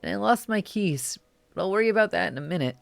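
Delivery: put-on a nervous teen calling mom, holding back tears; anxious young caller. Caller voice continues.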